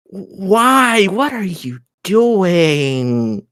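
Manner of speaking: drawn-out, incredulous demand; slow, pointed questioning right in his face; exasperated confrontation. Acted. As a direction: stretch the words out in dismay. Confronts the priest up close.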